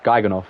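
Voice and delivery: Geigenhof with no H sound; H dropped. Shown as a demonstration. Gamer testing a Dutch name without its H, "Geigenhof" as "Geigen-off". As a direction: say "Geigenhof." ending in "-off", H silent. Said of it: "do I not pronounce the H".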